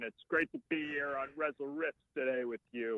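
lightly voiced Warburton; a hint of a deadpan uncle; Patrick Warburton impression. Shown as a demonstration. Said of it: "here's my Patrick Warburton".

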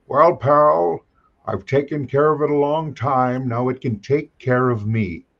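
light impression of a collector pal, slowing at the end; Forrest J. Ackerman. Mentor answering a friend about letting go, light impression. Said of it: "I'll do my best impression of him".

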